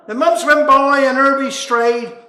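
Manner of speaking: can't keep the giggle out; laughing through words. Real, not acted. Storyteller laughing while reciting the poem, loud and giggly.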